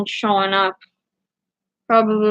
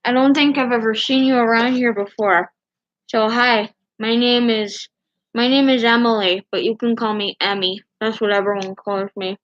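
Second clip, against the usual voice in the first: gauze in mouth. Real, not acted. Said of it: "I just put gauze in my mouth".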